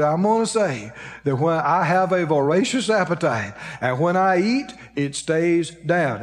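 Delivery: careful, drawn-out recitation; imitating someone carefully reciting a lesson; real slow. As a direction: repeat it slowly, stretching the last words. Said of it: "Let's go over it real slow".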